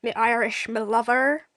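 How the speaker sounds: light mock Irish accent; jokey attempt at an Irish person; Irish impersonation. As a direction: put on a silly Irish lilt. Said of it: "impersonations of an Irish person".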